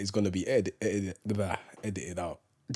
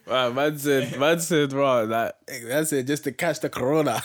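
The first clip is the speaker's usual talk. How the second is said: laughing while trying to talk; words breaking into giggles; stifled giggles; 2 semitones higher than usual. Real, not acted. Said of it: "I couldn't keep a straight face".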